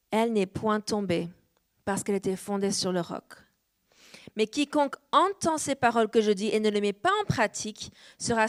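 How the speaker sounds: measured, solemn Bible reading, slowing on the storm lines; scripture reading. Acted. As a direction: read the Word with weight. Reads scripture passage aloud. (lecture solennelle de l'Écriture)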